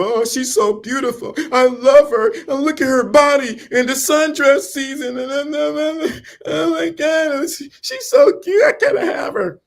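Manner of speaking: hammed-up high lovesick gush; mock infatuated guy. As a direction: ham up a man losing his mind over a woman. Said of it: "they are so".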